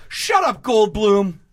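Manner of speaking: high-pitched outburst of exasperation; sudden mock yell. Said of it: "at any moment just yell".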